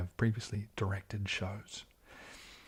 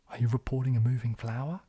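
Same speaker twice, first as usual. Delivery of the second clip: louder line in a Kiwi accent; 3 semitones higher, 6 dB louder than usual. Shown as a demonstration. Streamer trying the film line their own way, Kiwi accent. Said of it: "don't know how to say these things".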